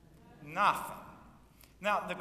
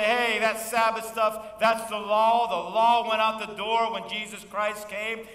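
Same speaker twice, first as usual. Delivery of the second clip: scoffing skeptics; 7 semitones higher, 11 dB louder than usual. Retold or imitated. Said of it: "a lot of people today will say".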